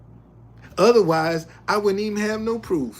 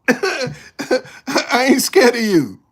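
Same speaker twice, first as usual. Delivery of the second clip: slow mock defiance; 6 semitones higher, 8 dB louder, much slower than usual. Shown as a demonstration.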